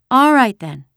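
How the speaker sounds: put-on high, loud child's voice; little girl. A narrator's reading. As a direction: agree like a small child giving in. Small girl gives in.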